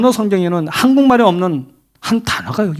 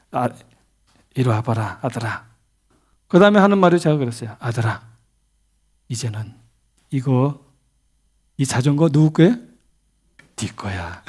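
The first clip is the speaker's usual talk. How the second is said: tender father; 6 semitones lower, 4 dB quieter than usual. Retold or imitated. Father speaking gently to his son.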